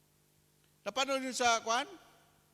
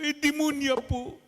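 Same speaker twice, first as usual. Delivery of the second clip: put-on boy telling the priest his father's name, child voice; innocent child voice; 8 semitones higher, 8 dB louder than usual. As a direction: say it like a guileless small boy.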